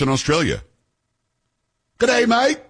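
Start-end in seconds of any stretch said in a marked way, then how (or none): 2.0-2.6 high mock Aussie "G'day, mate"; hammed-up Australian accent; Australian greeting. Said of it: "That's for our Australian friends".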